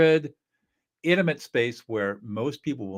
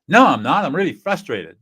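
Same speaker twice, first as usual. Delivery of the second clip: loud, higher upset protest; upset correction; 4 semitones higher, 8 dB louder than usual. Acted. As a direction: snap back to correct the listener. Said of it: "this upset person is gonna correct you".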